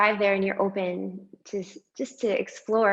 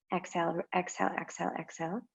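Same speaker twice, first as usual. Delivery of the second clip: quick cues fading to nearly nothing; fading exhale cue; 9 dB quieter, much faster than usual. Shown as a demonstration. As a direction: breathe it out as the voice empties. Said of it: "start by exhaling all of your breath".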